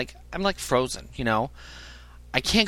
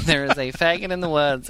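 laughing; 3 semitones higher than usual. Retold or imitated. Retold alarm, laughing at himself.

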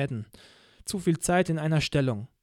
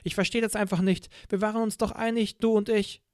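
a lightly raised, reproachful interrogator voice; cold official scolding a betrayer; reproachful interrogator, a touch higher; stern interrogator; 4 semitones higher than usual. Acted.

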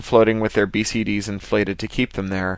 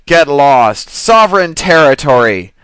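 loud, higher alien bellow; hostile reef yell; 5 semitones higher, 9 dB louder than usual. A narrator's reading. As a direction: drive intruders off, roaring.

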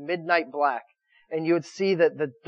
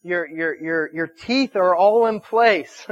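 mock tender groom; 2 semitones lower than usual. Groom voiced to his bride.

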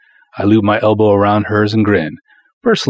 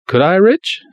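put-on pleading girl; 11 semitones higher, 3 dB louder than usual. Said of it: "her blue eyes all big".

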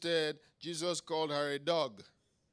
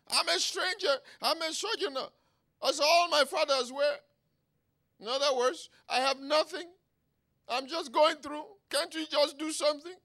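high, loud acted lament; desperate pleading; 11 semitones higher, 8 dB louder than usual. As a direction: beg God at full pitch. David pleading, then paraphrased by preacher.

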